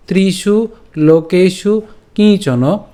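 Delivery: slow, measured Sanskrit shloka recitation; verse recitation. Shown as a demonstration. Teacher presenting today's Gita verse, slow recitation. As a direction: draw out each word of the verse. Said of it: "শ্লোকটি আমি ভেঙে দিয়েছি".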